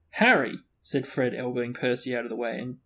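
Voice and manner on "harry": high, loud exclamation of a name; overdone hearty greeting; mock-pompous greeting. A narrator's reading. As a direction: hail him with mock grandeur. Fred mocking Percy's pompous greeting.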